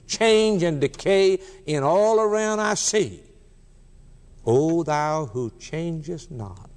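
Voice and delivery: slow, measured hymn verse; lingering over each line of the hymn; a hint of solemn recitation, slowed right down.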